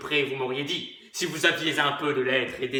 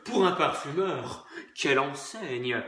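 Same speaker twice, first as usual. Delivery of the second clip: admiring; 4 semitones lower, 5 dB quieter than usual. Acted.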